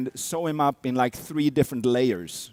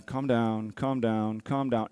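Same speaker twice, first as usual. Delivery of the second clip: soothing; 4 semitones lower, 5 dB quieter, slower than usual. Retold or imitated. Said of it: "I have to be there going".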